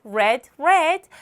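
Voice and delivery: "read, read" said like red, red; short e in each "read"; past-tense pronunciation. Shown as a demonstration. Teacher drilling the past forms, "read" pronounced red. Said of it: "발음 체크하세요".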